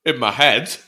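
groggy hungover voice. Real, not acted. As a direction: speak like you're hungover. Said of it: "I'm hungover today".

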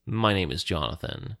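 Jonathan's bit of a put-on Alondron accent; lightly voiced Alondron accent on "My name is Jonathan". Jonathan introduces himself to the stranger in a mild Alondron accent. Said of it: "in his most convincing Alondron accent".

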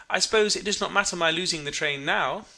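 brightly making little of it; cheerful. A narrator's reading. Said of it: "She said cheerfully".

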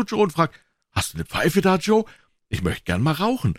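put-on high-pitched boys' voices; high, eager kid chatter; boys bragging, excited. A narrator's reading. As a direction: play boys crowing over a rival.

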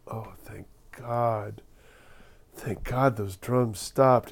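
slow, drawn-out mock relief; lightly acted sigh-of-relief delivery; relieved. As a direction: let the relief out slowly. Scared man relieved drums stopped.

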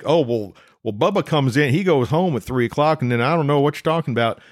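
light mock Southern accent, quick at the end. Husband mocks the clueless repair shop clerk in a light Southern accent. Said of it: "I don't know why they have a Southern accent".

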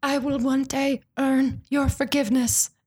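slow, earnest-sounding pledge; lightly hammed melodrama; mock solemn vow. The speaker makes a vow to Jamie, mock solemn.

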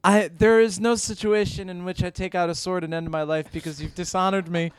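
mock Japanese mother. Mom reassures nervous son, mock-solemn Japanese accent. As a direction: sink into a grave put-on mother voice. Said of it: "I'm the Japanese part of your family".

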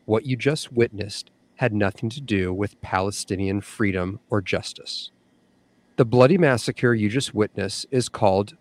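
earnest reading of an open letter; formal statement read aloud. Real, not acted. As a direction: read a written appeal with steady, deliberate emphasis. Reads someone's written statement aloud.

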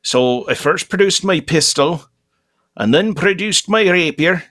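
light Scottish brogue; hammy Scottish storyteller voice; Scottish accent. Acted. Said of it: "Scottish now?".

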